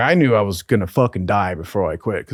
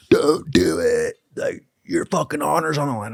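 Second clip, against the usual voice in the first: imitating sobbing; 3 semitones higher than usual. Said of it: "literally sobbing in front of us".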